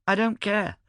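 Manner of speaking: high, impatient retort; snappish. A narrator's reading. Vlora dismisses Tampo's excuse about his disguise, snappish.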